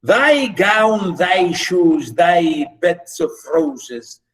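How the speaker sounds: deliberate, drawn-out verse reading with line pauses; poem recitation. Acted. Teacher reading the nymph's reply to class, poem recitation. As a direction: declaim each line, lifting its opening and falling at the end.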